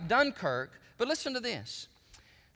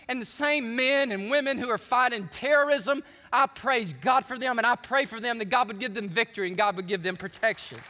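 raised preacher voice, gathering speed; fervent preaching; 3 semitones higher, 4 dB louder than usual. Real, not acted. Preacher praising God for those fighting terrorism, fervent preaching.

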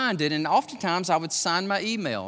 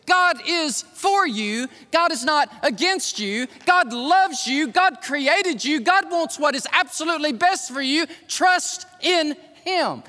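voice of truth; 8 semitones higher, 4 dB louder than usual. Shown as a demonstration. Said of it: "The voice of truth sounds something like this".

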